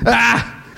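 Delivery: a short startled "Ah!"; retold scream. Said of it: "I screamed".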